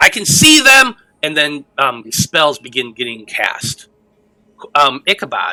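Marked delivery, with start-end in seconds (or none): 0.0-0.9 very high, shrill, loud, carrying shout. Voicing a character who spots enemies during spellcasting: yelling. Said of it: "you hear Tomas yelling".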